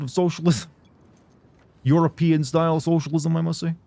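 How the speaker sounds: put-on old senator stump speech, slowed; Bernie Sanders. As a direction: orate like a campaigning socialist senator. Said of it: "you know, Bernie Sanders".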